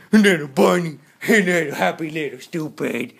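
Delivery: a lightly put-on, slow bad English accent. Shown as a demonstration. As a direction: sell a clumsy fake English accent. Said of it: "I just do, like, you know, English badly".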